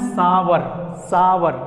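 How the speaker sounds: "सावर" as two syllables, "saa-war"; corrected pronunciation. Shown as a demonstration. Teacher repeating the correct word for students, two-syllable "सावर". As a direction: open the first vowel of "सावर" wide. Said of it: "इसको हमेशा बोलना है".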